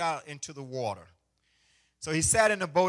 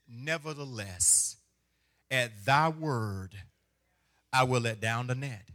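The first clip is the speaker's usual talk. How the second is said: solemn scripture reading; 5 semitones lower than usual. Real, not acted. Reads King James slowly.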